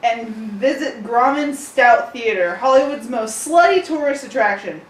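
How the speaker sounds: chipper tour guide announcement. Acted. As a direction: read it like a cheesy tour guide. Continues tour guide parody read.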